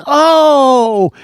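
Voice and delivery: loud, high, drawn-out yell; yelp of pain. Acted. Beaver bitten on the tail, yelling. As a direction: howl it high and long. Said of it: "that beaver yelled".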